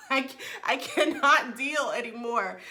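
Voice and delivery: giggly, overwhelmed protest; laughing exasperation. Real, not acted. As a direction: talk through a laugh.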